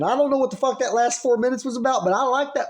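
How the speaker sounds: baffled redneck dad with a Southern twang; redneck Southern accent. Acted. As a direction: play up the Southern accent as a puzzled moviegoer. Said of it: "say that in a Southern accent".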